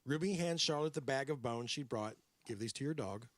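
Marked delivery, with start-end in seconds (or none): 2.4-3.3 put-on New York accent. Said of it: "I'm doing the New York accent".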